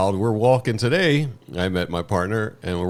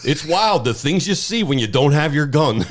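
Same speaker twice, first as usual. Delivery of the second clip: older woman imitation; 6 semitones higher, 4 dB louder than usual. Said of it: "And then she says".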